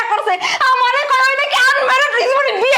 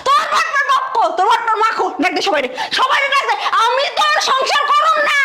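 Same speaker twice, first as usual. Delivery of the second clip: angry shout; 3 semitones higher than usual. Acted. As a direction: demand it at the top of your voice. Bride berating cheated husband.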